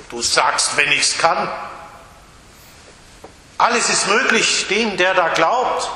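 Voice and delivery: mild rebuke; indignant Jesus. Acted. Jesus rebuking the doubting father, mildly indignant. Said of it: "Wird Jesus wieder ungehalten".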